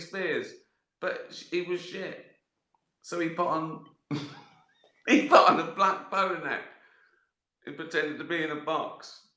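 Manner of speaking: mock outrage at an idiot mime; exasperated comic rant. Describer slagging off the mime.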